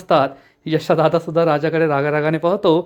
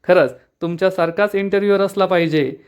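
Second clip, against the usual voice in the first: laughing thanks; 3 semitones higher than usual. Acted. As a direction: thank him through a light laugh. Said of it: "Avni हसू लागते". (हसत हसत आभार मानत)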